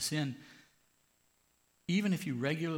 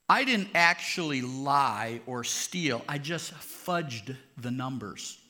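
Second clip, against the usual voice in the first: loud, slow, mock-innocent excuse; excuse-maker's voice; 8 dB louder, slower than usual. Slow, loud mock excuse to the congregation. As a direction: drag out the excuse like a guilty man pleading.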